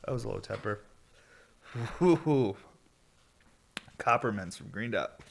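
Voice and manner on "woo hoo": high, loud whoop; excited cheer. Real, not acted. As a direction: celebrate with a happy woo-hoo. Cheers after the dab.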